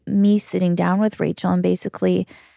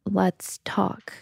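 soft unvoiced whisper; whispered aside; 6 dB quieter than usual. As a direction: whisper it so nobody overhears. Discreet word to old acquaintance.

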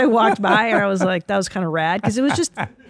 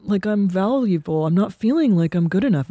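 mopey husband. Retold or imitated. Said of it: "he's like".

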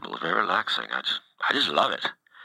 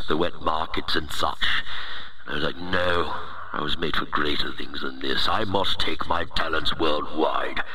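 booming demon lord. Acted. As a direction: play a self-important virus overlord. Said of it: "It's not my real voice".

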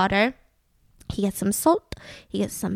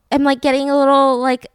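out of breath; 5 dB louder than usual. Real, not acted. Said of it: "out of breath 'cause of".

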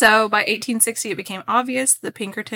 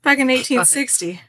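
dramatic, theatrical, voice jumps higher and louder on "twenty twenty"; Moira Rose impression; 6 semitones higher, 8 dB louder than usual. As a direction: declaim like a grand soap actress lost in time. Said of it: "we just slip into Moira".

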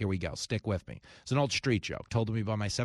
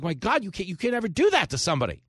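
higher, louder, disbelieving rant; hammed-up shock at losing his beloved pet; outraged cat owner; 8 semitones higher, 5 dB louder, faster than usual. Cat owner hearing his cat died, hammed-up outraged disbelief. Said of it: "He's like".

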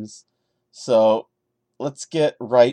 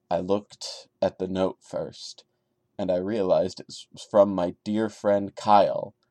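steady storyteller read of a first-person horror tale; story narration; 4 semitones lower than usual. A narrator's reading. Reading a creepypasta aloud to viewers, calm narration. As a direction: tell it like a campfire creepypasta, calm and measured.

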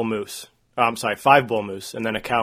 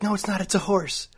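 high-pitched mocking Allie; Allie, stubborn; 9 semitones higher than usual. Girlfriend stubbornly insisting it's a horse, high mock voice. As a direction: squeak the denial back at him. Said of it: "She's like".

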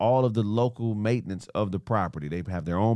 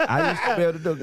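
Donald Duck voice; 7 semitones higher, much faster than usual. Shown as a demonstration. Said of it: "can you do it better, Donald Duck?".

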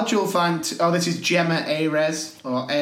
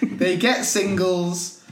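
"They get singles" slowed, laughing through it; laughing, slower; much slower than usual. Shown as a demonstration. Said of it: "Are you sure?".

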